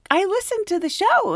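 high, eager fan voice; excited fan. Retold or imitated. Fan telling Betty she listens, high and eager. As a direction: gush a little. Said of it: "she was like".

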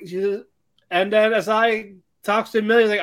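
ordinary delivery

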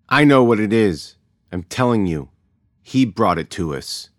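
a scared woman loudly insisting the stranger brought the plague; insistent outburst. A narrator's reading. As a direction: plant your feet and refuse to be hushed. Shishani insists against the mother.

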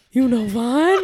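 high, amazed question; mock disbelief; imitated astonishment. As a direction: ask it like a student stunned by the teacher.

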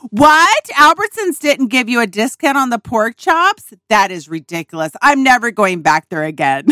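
hammed-up fury over a trivial slight; mock outrage. Imitating mom joining her daughter's anger, mock outrage.

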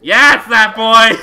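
very loud, high, drawn-out cheer; excited shout. Pretend. Game master confirming the character's identity, excited shout. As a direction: shout it slowly with delight.

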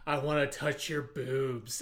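slow, pressed loud whisper; whisper yell. Retold or imitated. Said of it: "whisper yells".

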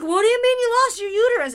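high loud disbelieving question; baffled dad. Retold or imitated. Dad asks his daughter loudly, baffled. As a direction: demand it in disbelief. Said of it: "the dad's like".

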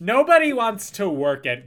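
lightly put-on voice with a loud complaint; Kim Kardashian. Comedian mimicking a celebrity for the co-host, Kim Kardashian impression. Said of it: "that's my Kim Kardashian impression".

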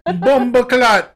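loud, drawn-out Jamaican curse; mock Jamaican. Host joking about the accent, loud mock Jamaican. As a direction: toss out a playful Jamaican swear, slowly.

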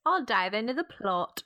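a light, half-hearted fake British accent, mock Gatsby. Podcaster joking in a fake British accent like Gatsby. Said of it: "I'm doing a fake British accent".

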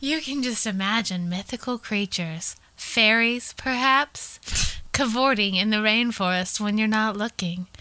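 lightly theatrical read-aloud; dramatic quote reading. Acted. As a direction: read it out like a storyteller setting up a mystery. Reads a trail quote aloud.

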